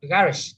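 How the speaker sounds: garage with the weight on GAR; first-syllable stress. Shown as a demonstration. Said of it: "first syllables".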